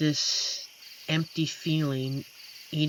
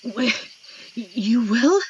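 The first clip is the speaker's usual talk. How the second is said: higher and louder, stammering in disbelief; surprised; 7 semitones higher, 6 dB louder than usual. Acted. Werewolf hearing the stranger will stay, surprised. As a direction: caught off guard by happy news, voice jumps up.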